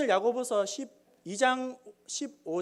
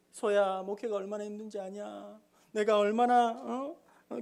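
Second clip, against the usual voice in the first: mock weary pastor. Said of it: "목사님이 그런 이야기를 하십니다".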